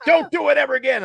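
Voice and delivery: retold scolding.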